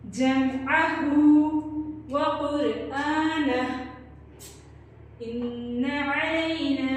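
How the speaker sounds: slow chanted Quran recitation. Shown as a demonstration. Teacher leads the verse for students to repeat. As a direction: chant the verse slowly for the class. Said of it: "मेरे साथ इस आयत को दोहराएं".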